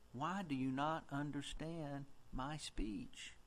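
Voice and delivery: slow and deliberate, word by word; patient, exaggerated slow repeat. Shown as a demonstration. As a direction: drag it out so they can't miss it. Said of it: "Do I need to talk a little slower?".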